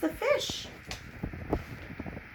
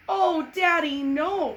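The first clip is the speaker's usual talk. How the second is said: put-on child crying out; 5 semitones higher, 4 dB louder, slower than usual. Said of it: "cried Mary".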